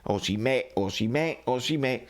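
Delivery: "Osimè" alla napoletana, senza la n finale; pronuncia napoletana. Shown as a demonstration. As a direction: say "Osimè" with the final N dropped, stressed at the end. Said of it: "autorizzati a chiamarlo Osimhen". (pronuncia napoletana, accento finale su "Osimè")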